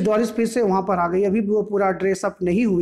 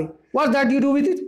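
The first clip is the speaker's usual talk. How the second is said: higher, mildly huffy retort; a touch of anger; 5 semitones higher than usual. Acted. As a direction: snap back at the neighbour, lightly. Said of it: "थोड़ा गुस्सा आ गई".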